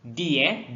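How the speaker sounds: D said like a T with little breath; soft unaspirated D. Shown as a demonstration. Teacher showing a D like a soft T. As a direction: say D as a T with hardly any air. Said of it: "macam huruf T, tapi kurangkan angin dia".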